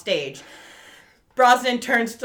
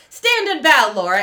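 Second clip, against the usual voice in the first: higher and louder call across the room; calling out to her; 4 semitones higher, 8 dB louder than usual. Retold or imitated. Brosnan calls Laura up before the crowd, showman call. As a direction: summon her to stand, showman style.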